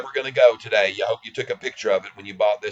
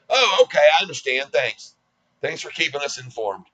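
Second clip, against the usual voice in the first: hammed-up naive client; naive caller voice; 3 semitones higher than usual. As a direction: thank them sweetly without suspecting anything. Imagined caller thanking, naive.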